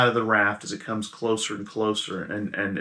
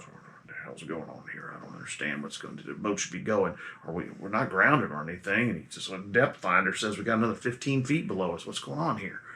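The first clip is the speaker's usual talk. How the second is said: freaking out; 4 semitones lower, 7 dB quieter than usual. Acted. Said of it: "he's really kinda freaking out".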